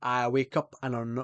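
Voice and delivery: put-on Scottish accent. Shown as a demonstration. Streamer starts demonstrating for chat, Scottish accent. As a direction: try out a Scots accent. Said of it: "I can do Scottish".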